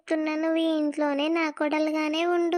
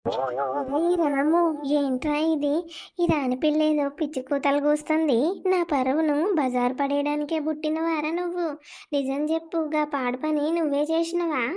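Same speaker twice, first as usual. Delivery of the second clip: stern mother. Acted. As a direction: drag out the call, then scold him. Mother confronts her son.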